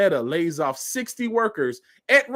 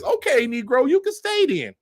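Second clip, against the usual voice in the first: mocking dismissal; 8 semitones higher than usual.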